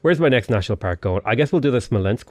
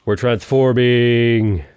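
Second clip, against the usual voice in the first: slow, stretched-out delivery, louder; drawn-out announcement; 4 dB louder, much slower than usual. Real, not acted. Player announcing the empire's change, drawn-out. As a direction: announce it with each syllable held.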